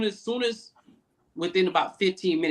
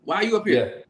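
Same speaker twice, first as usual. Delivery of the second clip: higher-pitched imitation of a boss confronting someone; retold confrontation, pitched up; mock challenge; 5 semitones higher than usual. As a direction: act out stopping someone at the door, pitch up. Acting out boss stopping someone.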